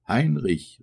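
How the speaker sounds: high-pitched call of a name. A narrator's reading. Old woman to her missing son, calling out. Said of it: "rief eine alte Frau".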